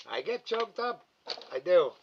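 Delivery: embarrassed laugh through the words; sheepish laughing admission. Real, not acted.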